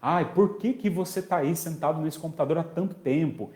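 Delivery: mock an irate parent's ranting reproach; acted angry scolding. Parent scolding a child glued to the computer, exasperated. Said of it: "esbravejante não é muito adequada".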